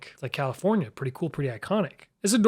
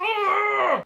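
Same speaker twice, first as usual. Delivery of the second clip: mock yell. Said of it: "North Dakota was like".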